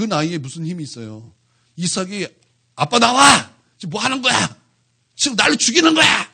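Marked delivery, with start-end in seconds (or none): 2.8-6.3 Isaac yelling at his father, half-acted; a rebellious teen shouting back; mock teen yell. Isaac shouting back at his father, hammed-up.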